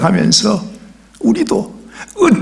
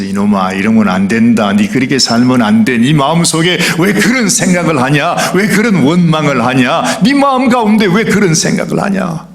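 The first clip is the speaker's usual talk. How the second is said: God scolding. Retold or imitated. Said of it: "하나님께서".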